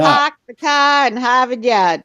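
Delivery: Hawk, car and Harvard Yard all said without r, slowly. Shown as a demonstration. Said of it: "It's R A H".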